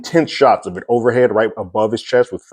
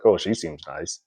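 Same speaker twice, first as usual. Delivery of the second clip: flippant; 4 semitones lower, 7 dB quieter than usual. Retold or imitated. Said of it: "flippantly was like".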